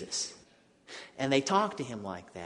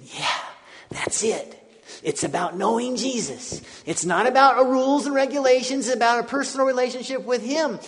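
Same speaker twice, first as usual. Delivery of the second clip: higher and louder, building; eager friends' loud confirmation; excited agreement; 10 semitones higher, 7 dB louder than usual. Retold or imitated. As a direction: confirm it with rising joy.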